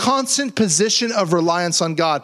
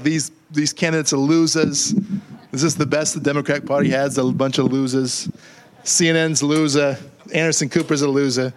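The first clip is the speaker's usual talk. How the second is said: Trump impression; 4 semitones lower than usual. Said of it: "reading the tweets with his accent in my mind".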